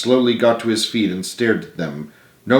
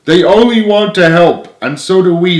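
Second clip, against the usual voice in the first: raised earnest plea; sincere; 7 semitones higher, 6 dB louder than usual. Acted. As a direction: speak from the heart. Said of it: "said Clara sincerely".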